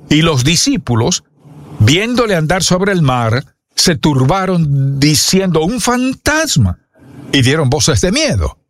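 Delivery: measured Bible reading, rising and falling; scripture reading. Acted. Preacher reading Matthew fourteen to his church, with reverence. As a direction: read the passage to the congregation with reverence.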